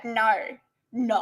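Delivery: Aussie-style "no" impression; Shad. Shown as a demonstration. Streamer saying no like someone known, imitated accent. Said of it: "I'll say it like Shad".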